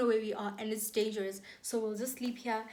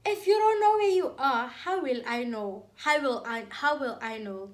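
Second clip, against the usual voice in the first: exasperated shout; 7 dB louder than usual. Retold or imitated. Exasperated friend on the phone.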